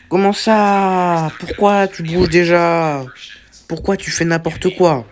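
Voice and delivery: loud, high, drawn-out protest; indignant outburst. Real, not acted. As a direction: wail in outraged disbelief. Outraged that the animatronic moves already.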